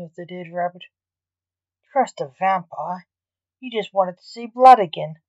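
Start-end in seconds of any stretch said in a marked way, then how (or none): 1.9-5.2 snapping. Acted. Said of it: "snapped Blake".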